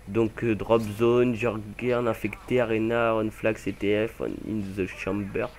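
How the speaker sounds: English game-mode names with a French accent. Real, not acted. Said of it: "Désolé pour mon accent anglais". (anglais avec un accent français)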